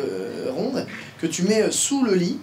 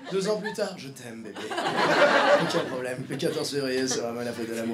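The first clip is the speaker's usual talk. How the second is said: hushed, lovey-dovey mock; soft mock romantic; 5 semitones lower, 5 dB quieter than usual. Mocking the single girl who later gushes over love, hushed. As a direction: coo it like a smitten girlfriend.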